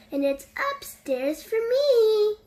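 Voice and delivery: cheerful storybook yell. A narrator's reading. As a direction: call it out happily. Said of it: "yelled Ted".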